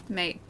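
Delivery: MATE, no crisp T at the end; MATE with dropped T. Shown as a demonstration. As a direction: say MATE with the T softened away. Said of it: "you have to drop the T".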